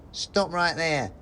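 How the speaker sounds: high, slow squeaky soldier; a little rodent guard laying down the law; mouse soldier voice. Acted. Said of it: "he said".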